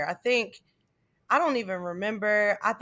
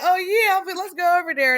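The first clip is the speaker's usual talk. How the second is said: higher, louder eager retelling; hyped-up agreement; 8 semitones higher, 5 dB louder than usual. Retold or imitated. Woman retelling her reply to friends who hyped her, eager agreement. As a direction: play being easily talked into it.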